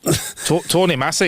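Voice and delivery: "Tony Massey" tried in a Scottish accent. Shown as a demonstration. Host addressing listener Tony Massey, attempted Scottish accent. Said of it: "in a Scottish accent there".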